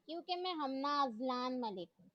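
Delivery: proud, measured, stress on मैं; girl proudly stating her full name, lightly dignified. Acted. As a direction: announce मैं with lofty pride. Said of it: "फिर बावकार अंदाज में बोली".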